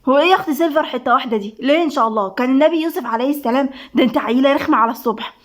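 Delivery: quick, snippy retort; mildly annoyed, rattling it off fast; irritated. Acted. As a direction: tell off a teasing friend, testily. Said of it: "وبصت لندى بعصبية".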